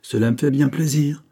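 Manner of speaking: reply with kindly pleasure; benevolent. A narrator's reading. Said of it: "répondit monsieur Ashley avec bienveillance". (avec bienveillance)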